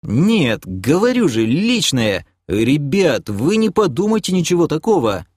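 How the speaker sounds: high-pitched wailing self-justification; lamenting. Acted. Doc protests to the guys that it's innocent, lamenting. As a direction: plead your innocence in a mild lament. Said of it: "запричитал док".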